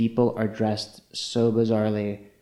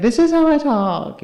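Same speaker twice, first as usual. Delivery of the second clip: Laganja; 4 dB louder than usual. Retold or imitated. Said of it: "she's like".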